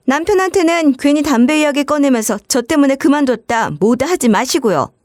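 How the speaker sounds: sister-in-law telling the cleaner to quit, haughty; haughty demand. Acted. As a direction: order her to quit with disdain.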